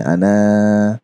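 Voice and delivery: अना with the a stretched long, aana; अना, lengthened alif; drawn-out ana. Shown as a demonstration. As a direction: pull the vowel of अना long. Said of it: "तो हम उसको खींचते हैं".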